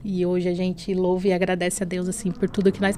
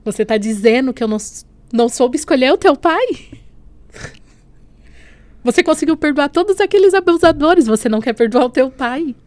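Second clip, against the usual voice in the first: louder, higher, pleading rebuke; impassioned rebuke; 5 semitones higher, 7 dB louder than usual. Retold or imitated. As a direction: voice God's challenge with rising force. God's rebuke retold with passion. (repreensão fervorosa, mais alta e aguda)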